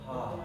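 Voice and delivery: soft exhaled "ha"; healing heart sound. Shown as a demonstration. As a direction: let out one long "ha" as a demonstration. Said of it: "the healing sound for the heart".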